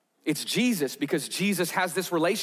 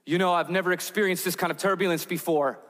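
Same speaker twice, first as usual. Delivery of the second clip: shaky voice; 2 semitones higher than usual. Retold or imitated. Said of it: "in this very shaky voice".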